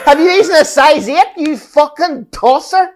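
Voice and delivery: high, loud jeering heckler; hammed-up jeering local lad; mock bully taunt. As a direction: bellow it like a small-town bully.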